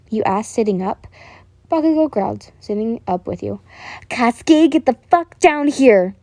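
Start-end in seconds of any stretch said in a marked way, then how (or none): 4.1-6.2 loud, high yell up the stairs; mother yelling for her son. A narrator's reading. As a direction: shout it across the house. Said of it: "his mother yelled down the stairs".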